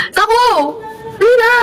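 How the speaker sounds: high, cutesy coaxing; put-on high pleading; baby talk. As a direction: call someone over in a high baby voice. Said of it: "Gusto mo, ibibitok kita?".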